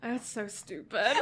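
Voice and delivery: slow words squeezed through laughing; helpless laughter. Real, not acted. Reacting to co-host's silly joke, helpless laughter. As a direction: struggle to speak while laughing.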